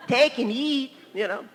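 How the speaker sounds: imitated Hispanic accent; scripture in a put-on Hispanic accent. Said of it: "that was a little different dialect for him".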